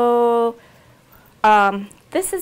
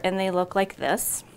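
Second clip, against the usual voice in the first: a quick whispered aside to camera; 6 dB quieter than usual. Real, not acted. Showing the gnocchi package to viewers, whispered.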